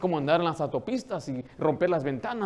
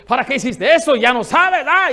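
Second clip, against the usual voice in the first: angry shout, higher and much louder; loud scolding; 7 semitones higher, 10 dB louder than usual. Shown as a demonstration. Father scolding his daughter, loud angry shout. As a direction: yell at the daughter like a furious parent. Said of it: "le puedo yo hablar fuerte".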